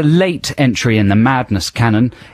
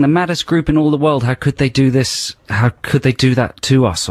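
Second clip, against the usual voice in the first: mock lyric from a singer. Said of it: "He's saying".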